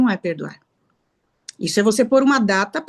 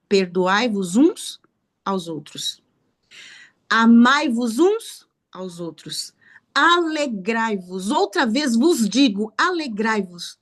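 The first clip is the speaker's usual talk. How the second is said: slow, deliberate reading of the commands; measured, reverent recital of scripture; slow solemn scripture quote; slower than usual. Acted. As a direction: intone each command slowly, like holy words. Quoting God's commands from scripture.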